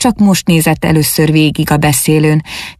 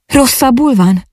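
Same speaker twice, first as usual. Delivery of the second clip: concerned; 8 semitones higher than usual. A narrator's reading. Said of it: "kérdé az természetes aggodalommal".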